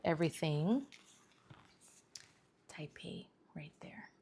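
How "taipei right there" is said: geflüstert; whisper. Real, not acted. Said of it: "whispered aside".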